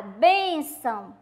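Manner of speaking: bênção said slowly, with a closed ên; slow, careful bênção; teacher demo word. Shown as a demonstration. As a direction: draw out bênção for the class. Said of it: "Vamos lá, ó".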